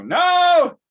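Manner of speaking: high, loud fake-innocent no; guilty denial. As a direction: shout a guilty denial like a caught kid. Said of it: "I'd step back and go".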